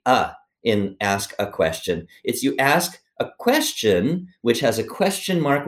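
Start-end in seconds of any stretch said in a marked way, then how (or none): 0.0-0.3 the article "uh" set apart and emphasized; single out the little word "uh"; stress on the article. Shown as a demonstration. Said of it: "I wanna emphasize the". 2.6-5.7 slow, deliberate "ask a question", higher pitched; "ask a question" slowed and stressed for emphasis; emphatic instruction. Shown as a demonstration. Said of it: "I wanna emphasize the".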